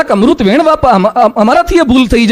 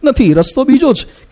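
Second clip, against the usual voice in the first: calm, polite. Shown as a demonstration. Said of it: "શાંતિથી બાજુમાં જઈને કહેવાય કે".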